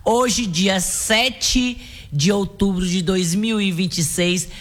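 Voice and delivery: drawn-out radio host greeting; sing-song good mornings with long held endings; radio show opening. Acted. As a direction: announce the morning show, stretching out the key words. Opens radio show greeting listeners.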